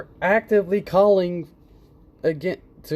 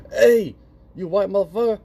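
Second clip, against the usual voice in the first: a lightly voiced insulting heckler, a bit louder; mock heckler; 6 semitones higher, 4 dB louder than usual. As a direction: toss it off like a passing jerk. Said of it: "If someone goes".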